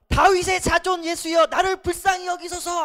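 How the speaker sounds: loud, high desperate plea; a beggar's loud desperate cry for mercy. Acted. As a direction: cry out to Jesus from the roadside. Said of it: "하면서 소리를 지르기 시작했어요".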